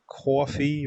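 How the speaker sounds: New York coffee, rounded aw vowel; a touch of New York accent. Shown as a demonstration. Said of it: "only thing I remember of, like, New York accent".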